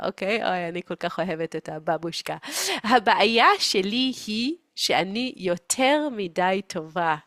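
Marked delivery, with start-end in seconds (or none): 2.8-7.2 slow, mock martyr lament; self-pitying mother. Mother saying she is too good, self-pitying. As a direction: confess goodness as a slow burden.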